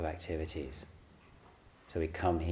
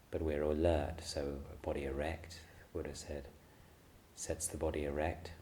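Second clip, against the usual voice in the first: softer, unhurried meditation guidance with long pauses; guided meditation; 5 dB quieter than usual. Acted. Teacher settling a group into sitting and breathing, calm meditation guidance. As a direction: ease them gently into stillness, leaving room between phrases.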